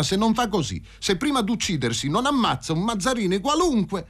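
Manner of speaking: high-pitched, indignant declaiming; ranting café speaker. Acted. Café orator damning a man as an imbecile, high declaiming.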